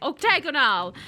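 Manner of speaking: mock incantation, punched out loud; loud hammed-up wizard spell; cursed spell. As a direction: cast it like a curse. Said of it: "sounds like a horrible cursed spell".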